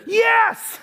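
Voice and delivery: high shouted "yes" with a laugh; excited girl. Retold or imitated. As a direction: squeal it like the thrilled fan. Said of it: "To which she said".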